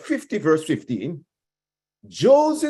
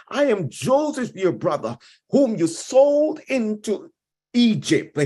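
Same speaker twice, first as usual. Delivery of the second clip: Joseph revealing himself; 4 semitones higher than usual. Acted. Preacher voicing Joseph's reveal.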